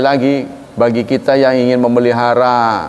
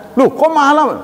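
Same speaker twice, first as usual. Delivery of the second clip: mock shock at price; 12 semitones higher than usual. Customer shocked by the bill.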